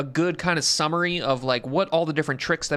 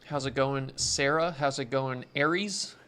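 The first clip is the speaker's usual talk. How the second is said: talking while chewing gum; words round a wad of gum; 4 dB quieter than usual. Real, not acted. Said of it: "Let me spit out this gum".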